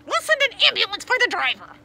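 high, very loud dispatcher voice; shouted order. A narrator's reading. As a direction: shout instructions over the radio. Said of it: "the voice ordered".

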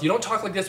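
"talk like this" in wide-open English articulation; exaggerated open-mouthed English; big open mouth. Shown as a demonstration. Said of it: "I'm talking with a big mouth".

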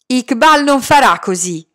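loud defiant cry; shouted. Acted. Boy shouting defiance at the other children, loud.

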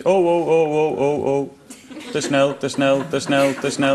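robotic car voice warning; computer voice. Pretend. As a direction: play the dashboard computer. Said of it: "een computerstem zegt".

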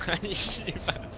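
cursing under breath. Real, not acted. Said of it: "진짜 외국인인가?".

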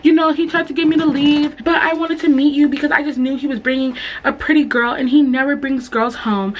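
high, sweet chatty mom voice; lightly voiced doting mom; high gushing mom. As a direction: gush like a proud mom. Mom gushing about her son.

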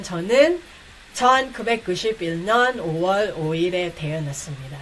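rattled off fast and smooth; fast Korean demo. Shown as a demonstration. Teacher demonstrating the birthday sentence fast for learners. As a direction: run the whole Korean line quickly. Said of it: "You say in Korean".

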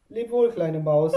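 höher und lauter gerufen; hastiger Ruf. Acted. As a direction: ruf es in großer Hast. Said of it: "rief sie voller Hast". (Eule ruft hastig Abschied)

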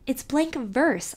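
slow, high protesting cry; indignant cry. Acted. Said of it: "I cried".

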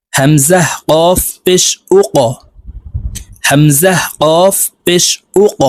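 slow drill, each ক bounced upward; qalqala drill. Shown as a demonstration. Teacher chanting syllables for students to repeat, bouncing ক. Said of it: "ধাক্কা দিয়ে উচ্চারণ করব".

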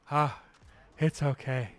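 imitating a weak dad brushing it off; lightly voiced dazed father reassuring; ailing dad. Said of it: "my dad's like".

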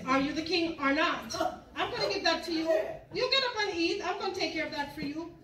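coaxing queen. Retold or imitated. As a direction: coax him like a scheming wife with a chuckle.

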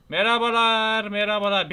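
loud, drawn-out hello; calling a greeting. Pretend. Player greeting the game's characters, calling out. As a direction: call out with stretched vowels.

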